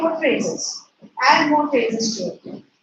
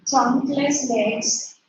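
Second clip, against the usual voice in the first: slow dictation; much slower than usual. Shown as a demonstration. Dictating words to class.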